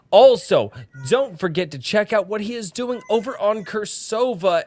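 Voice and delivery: lightly voiced hype announcer; a hint of a ring announcer; fighting game announcer. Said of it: "Get the announcer voice going".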